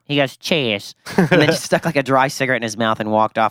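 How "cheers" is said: imitated British "cheers"; British accent. Valet mimics the guest walking off, British accent. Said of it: "He's this British guy".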